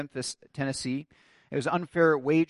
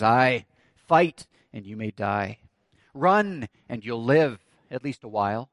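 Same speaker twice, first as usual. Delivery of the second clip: measured battle challenge, punched verbs falling away lower; challenging; 5 semitones lower, slower than usual. Acted. Wallace challenges the frightened soldiers, measured dare. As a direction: hit each choice, then drop the consequence. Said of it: "To which Wallace challenges".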